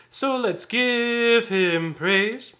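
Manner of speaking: loud, high rhythmic chant of the phrase; spoken in tempo. Shown as a demonstration. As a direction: chant it on the beat, vowels held long. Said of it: "let's speak this real fast in tempo".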